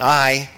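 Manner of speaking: "I," set apart as its own piece; broken-down reading. Shown as a demonstration. Preacher breaking the verse into parts, "I," standing alone. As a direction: pause after "I," to isolate it. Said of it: "four different ways that it's broken down".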